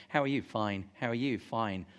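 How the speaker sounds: lightly acted small talk, "Fine" dropping low; polite British understatement. Preacher acts out British greetings hiding trouble, politely understated. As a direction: answer with a short, low, dismissive "Fine". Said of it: "the British way".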